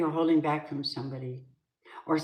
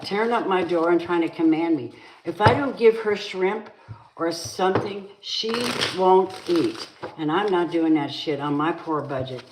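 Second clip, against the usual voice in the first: rising heated voice, louder toward the end; furious argument building to a louder peak; real angry rant; 4 dB louder than usual. Real, not acted. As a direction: tell them off, fed up and getting louder. Angry complaint about cat.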